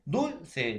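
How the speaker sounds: "dulce" split, weight on DUL; stress on penultimate syllable. Shown as a demonstration. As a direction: say "dulce" as DUL-ce, falling after DUL. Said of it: "la mayor fuerza de voz en la penúltima sílaba".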